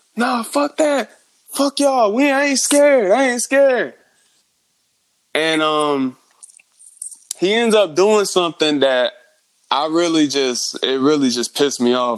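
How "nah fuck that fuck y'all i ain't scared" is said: put-on yelling, much higher pitched. Retelling what a man shouted at police during a protest, retelling a yell. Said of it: "he's yelling at the cops".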